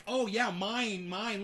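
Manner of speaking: slow, drawn-out "mine, mine" mimicking a greedy viewer; mocking greedy voice. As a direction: sneer it, slow and possessive. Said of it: "It's like".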